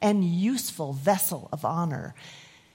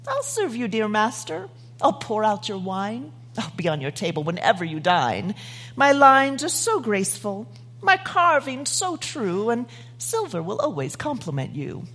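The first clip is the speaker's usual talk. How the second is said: eager silver urn. Acted. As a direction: flatter the master sweetly. Silver urn speaks in poem.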